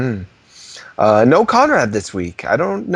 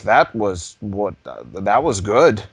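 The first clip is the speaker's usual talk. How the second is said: mock viewer; 6 semitones lower, slower than usual. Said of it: "be like".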